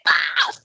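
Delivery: short high "ah" of someone hit; quick acted cry of pain; mock pained cry. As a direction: yelp as the blow lands, acted. Game master voices character being hit.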